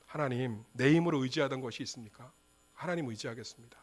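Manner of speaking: repenting before God in a hushed voice; quiet repentant prayer. Acted. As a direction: turn inward and pray it softly.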